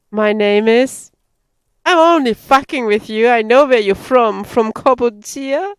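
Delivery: loud, teasing officer voice; teasing lieutenant. Acted.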